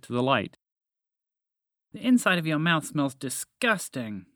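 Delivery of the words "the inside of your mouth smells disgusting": mouse voice. Acted. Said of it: "panting for fresh air".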